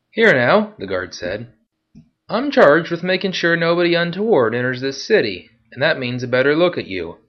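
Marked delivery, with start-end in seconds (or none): 0.1-0.7 high, loud, slow sneering guard; guard taunting the veteran, loud and high; mocking guard. Guard asserts authority. 2.3-7.2 higher, firm guard voice; guard insisting on a closer look; officious guard. Acted.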